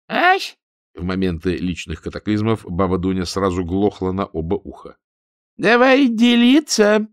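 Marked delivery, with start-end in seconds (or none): 0.1-0.6 put-on high, thin old-woman squeak of a question; a granny who pretends not to hear; old woman's startled "eh". A narrator's reading. Old baba Dunya, pretending deafness to Ninka, squeaks a high "eh?". 5.6-7.1 slow, insistent, loud repeat; repeated demand, louder. A narrator's reading. Ninka repeats her demand to the deaf granny, slow and loud. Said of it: "повторила Нинка".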